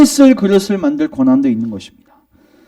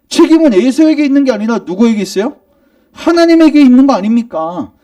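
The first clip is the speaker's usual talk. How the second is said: indignant protest; 5 semitones higher than usual. Retold or imitated. Preacher voicing people who accuse God of injustice, indignant. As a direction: argue back like an offended objector. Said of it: "이렇게 따지는 거예요".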